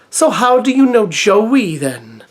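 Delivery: slow put-on Welsh accent; lilting Welsh voice, drawn out. Shown as a demonstration. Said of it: "Let's do it in a Welsh accent".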